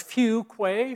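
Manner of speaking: "Few Quay" said as few plus kway; surname pronunciation. Shown as a demonstration. Guest preacher telling the congregation his surname, "Few Quay" pronounced few-kway. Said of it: "my last name is pronounced".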